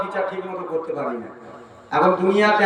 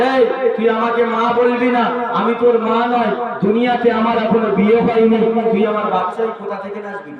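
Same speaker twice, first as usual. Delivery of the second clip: mock-angry woman, raised sing-song voice; indignant denial; 5 semitones higher than usual. Woman rejecting child who calls her mother, indignant. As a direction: disown the child with raised pitch.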